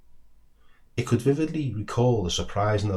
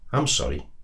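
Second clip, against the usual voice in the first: remorseful; 3 semitones lower than usual. Acted. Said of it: "remorse tinged in its tone".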